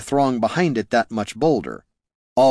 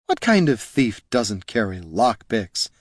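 exclaiming. Acted. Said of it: "exclaimed Loruna".

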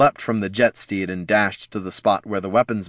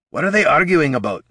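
gruff dwarf; 8 semitones higher, 5 dB louder than usual. A narrator's reading.

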